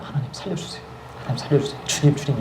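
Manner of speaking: soft, breathy pleading under the breath; hushed desperate prayer. Retold or imitated. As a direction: pray quietly so the man won't hear. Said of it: "절로 기도가 나오는 거예요". (숨죽여 간절히 비는 기도)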